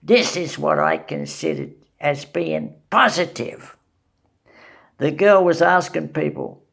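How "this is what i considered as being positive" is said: lightly voiced rat, barely changed; a hint of a squeaky rat. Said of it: "I forgot to talk like a rat".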